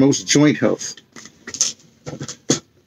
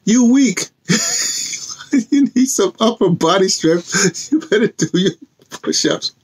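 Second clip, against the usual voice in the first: higher teasing imitation of the drum maker; mock Jesus voice; 7 semitones higher than usual. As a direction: lightly voice the old man's jab, higher. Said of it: "He said".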